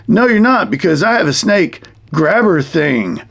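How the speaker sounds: mock defiance, opening high then settling; puppet-show comeback to a threat; defiant puppet hero. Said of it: "Mister D says".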